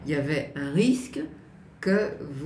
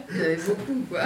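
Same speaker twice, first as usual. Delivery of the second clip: stifled giggles; faster than usual. Real, not acted. Laughs after twenty-four girlfriends.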